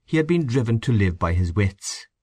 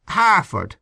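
weak whiny bedridden; 10 semitones higher, 3 dB louder than usual. A narrator's reading. Invalid naming the man.

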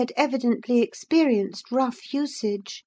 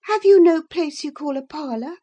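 a hint of a haughty gentleman, raised and louder; lightly voiced prim visitor demanding his supper; indignant gentleman; 3 semitones higher, 5 dB louder than usual. Visitor to the old servant, mildly haughty demand. Lockwood voiced, asking for parlour.

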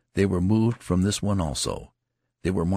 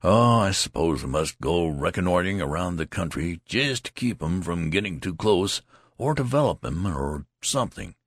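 lightly voiced, offhand veteran; a hint of an easygoing older soldier; nonchalant. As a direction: shrug it off between bites. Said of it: "in a nonchalant manner".

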